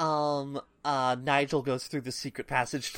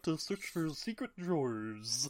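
Nigel, nerd voice; 6 dB quieter than usual. Acted. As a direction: drag it out like a dim cartoon nerd. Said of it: "giving Nigel a variety of nerd voices".

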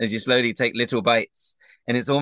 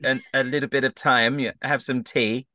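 higher-pitched, halting invitation in character; friendly game character; 4 semitones higher than usual. Acted. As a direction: coax a new friend to come round. Game master voices Agden.

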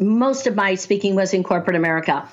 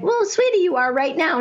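high, cooing reassurance to a client; retold soothing coach; 7 semitones higher than usual. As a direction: coo it sweetly, pitched well up.

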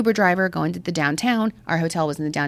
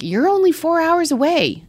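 imitating Texan friend; 10 semitones higher than usual. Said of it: "He's like".

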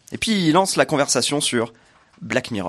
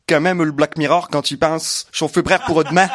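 lightly voiced silly conspiracist; mock a know-it-all friend; goofy imitation; 2 semitones higher, 5 dB louder, slower than usual. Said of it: "C'était quoi cette imitation?".

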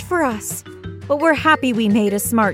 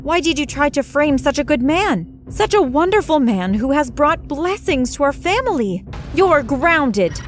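angry mom; 3 semitones higher than usual. Acted. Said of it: "My mom screamed".

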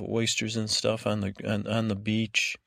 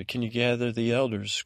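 reworded order as a rising question; retold request. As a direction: soften the order into a mock request. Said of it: "I'm not ordering you".

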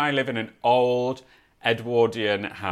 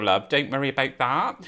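light put-on Bristol accent. Shown as a demonstration. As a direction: toss in a casual bit of Bristol accent. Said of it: "I can do Bristol".

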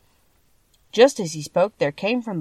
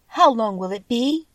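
lightly voiced child, pitched higher; child's question; 5 semitones higher than usual. A narrator's reading. Dorothy asks the Tin Woodman how long, lightly voiced girl. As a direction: ask it as a girl, a bit higher.

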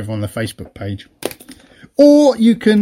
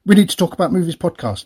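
quick, higher run-through of the title; run-together title; 4 semitones higher, faster than usual. Shown as a demonstration. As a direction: rattle off the show name in one breath. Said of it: "You have to say it like that".

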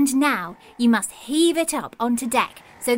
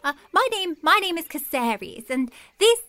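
tiny dinosaur voice; 3 semitones higher than usual. Acted.

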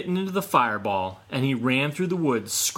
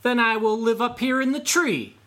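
taunting; 10 semitones higher, 4 dB louder than usual. A narrator's reading. Raccoon taunting from the tree.

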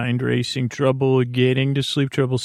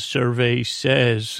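game show host; much slower than usual. Retold or imitated. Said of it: "thinking about when someone says".

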